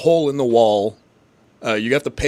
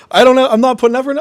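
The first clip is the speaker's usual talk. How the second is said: mocking a hater; 11 semitones higher, 9 dB louder, much faster than usual.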